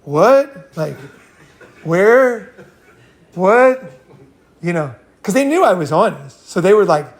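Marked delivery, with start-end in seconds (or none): 0.0-3.8 stunned friends. Retold or imitated. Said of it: "my friends were just like".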